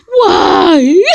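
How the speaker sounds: high, loud protest; shouted why. Acted. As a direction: yell it out in protest.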